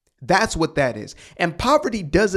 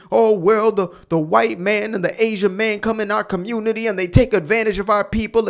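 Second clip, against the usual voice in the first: higher and louder, sneering imitation of a protester; hammed-up protester parody, raised pitch and volume; mock protester voice; 4 semitones higher, 3 dB louder than usual. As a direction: mimic the protesters' complaint with a scoff. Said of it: "Black Lives Matter out there protesting".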